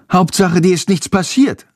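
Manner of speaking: lifted, happy relief; glad relief. A narrator's reading. Boy welcomes the tired bat home, gladly relieved. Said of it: "freut sich Jendrik".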